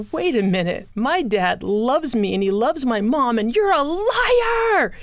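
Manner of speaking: put-on from disbelief to an outraged child's yell; child's defiant protest. Nine-year-old refusing the news, shouting liar. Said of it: "And I remember thinking".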